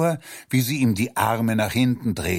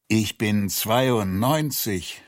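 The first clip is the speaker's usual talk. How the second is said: groaning; slower than usual. Acted. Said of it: "stöhnte er".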